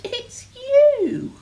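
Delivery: high, loud storybook reveal; loud gleeful punchline; merry exclamation. A narrator's reading. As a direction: burst out with amused glee, soaring up. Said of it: "they laughed and said".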